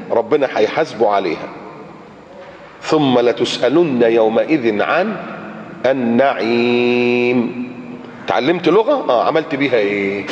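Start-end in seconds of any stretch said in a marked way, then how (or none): 2.8-7.6 slow, drawn-out recitation; Quran recitation. Acted. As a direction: chant the last word long and level. Recites a verse.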